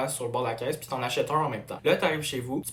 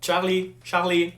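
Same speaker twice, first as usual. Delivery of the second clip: loud call, pitched up; 6 semitones higher, 9 dB louder, slower than usual. Acted. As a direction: call out to him. Calling out to Charlie.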